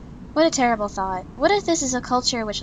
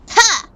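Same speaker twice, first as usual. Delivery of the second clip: a short, much higher, louder yelp of victory; triumphant shout "Ha!"; 10 semitones higher, 8 dB louder than usual. Acted. Winter punching her mentor in the chest, triumphant yelp. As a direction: shout it as you throw the punch.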